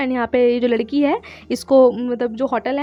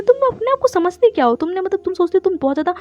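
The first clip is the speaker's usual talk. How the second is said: mock indignation, starting high; retold angry scolding; 4 semitones higher than usual. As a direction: imitate his telling-off with raised pitch. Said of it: "को बहुत गुस्सा आता है". (नकली गुस्से में ऊँची आवाज़ से डाँट)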